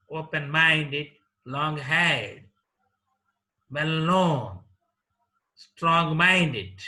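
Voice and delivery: put-on "well-behaved" through "old-fashioned", each stressed on its second part. Shown as a demonstration. Teacher listing compound adjectives like "well-known", second part of each stressed. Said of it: "stress is laid on the second part".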